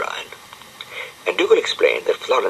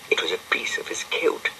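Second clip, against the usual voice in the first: whisper; 7 dB quieter than usual. A narrator's reading. Narrator reveals the kilt.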